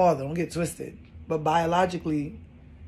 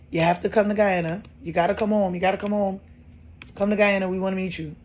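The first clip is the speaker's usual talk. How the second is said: excited invitation; 2 semitones higher, 4 dB louder than usual. Retold or imitated. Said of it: "the people are like".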